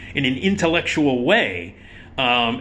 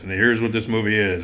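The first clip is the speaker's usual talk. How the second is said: a hint of a dry, offhand critic, a bit lower; Michael's plain delivery; 3 semitones lower than usual. Mimicking his late colleague's plain TV manner, understated. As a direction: lightly imitate an unpolished film reviewer. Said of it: "He talked like this".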